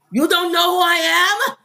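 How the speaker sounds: hammed-up Austrian action-star voice; Schwarzenegger impression. Host mimics Arnold at customs in mock Arnold voice.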